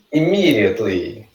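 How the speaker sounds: immediately as "i-MEE-dee-utly"; pronunciation model. Shown as a demonstration. Teacher having the class repeat, immediately carefully modelled. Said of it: "vocês vão repetindo".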